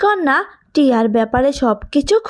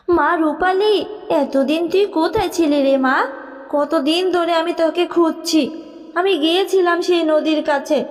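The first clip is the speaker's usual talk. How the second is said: tender fairy mother; 3 semitones higher than usual. Acted. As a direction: call your lost child home. Fairy mother finds her daughter.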